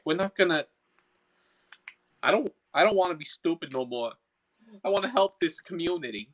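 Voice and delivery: earnest promise in a Boston voice; Boston accent. Acted. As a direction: contrite character with a Boston accent. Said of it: "I'm stuck in the Boston accent".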